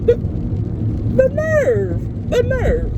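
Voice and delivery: high, drawn-out squeal of outrage; scandalized high-pitched cry; mock indignation. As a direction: exclaim it way up high, stretching the word. Indignant aside about the man.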